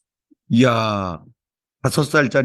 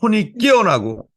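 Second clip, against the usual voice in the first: opening prayer; 3 semitones higher than usual. Real, not acted. Pastor praying over the church, fervent prayer. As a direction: pray it out over the congregation.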